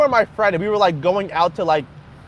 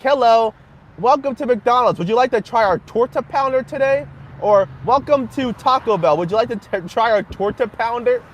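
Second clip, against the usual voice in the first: lightly voiced drive-thru greeting; mock fast food cashier; 2 semitones higher than usual. Joking to the stream as a fast food cashier, light mock cheer. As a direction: chirp it like a counter worker's script. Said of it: "sounds like a, uh, fast food item".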